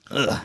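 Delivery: imitated disgusted scoff. Girlfriend reacting to his story, mock scoff. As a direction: scoff like a disapproving partner. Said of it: "like, a scoff".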